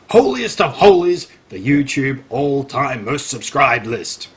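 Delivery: hammed-up read-aloud, slowing on the title; dramatic article reading. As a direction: read it out, inflating the grand phrases.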